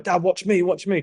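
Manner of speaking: high, light imitation of an eager kid; child seeking attention. Son on holiday calling to his dad, imitated bid for attention. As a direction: pitch it up like a child wanting to be watched. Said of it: "You want his attention".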